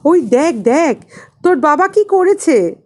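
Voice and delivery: high, loud teasing call, half laughing; mock him with a grin in the voice. A narrator's reading. Cousin wakes the boy to laugh at father, teasing. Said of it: "জ্যাঠতুতো ভাই হেসে বললেন".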